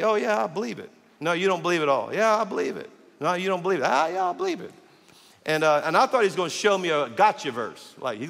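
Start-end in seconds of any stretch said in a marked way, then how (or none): 0.0-4.7 rising, insistent replies, higher each time; mock argument with the officer; insistent back-and-forth. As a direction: argue back, getting more emphatic.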